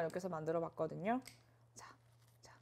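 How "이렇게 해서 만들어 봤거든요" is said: soft whisper to viewers; hushed, close whisper. Real, not acted. Whispered while eating.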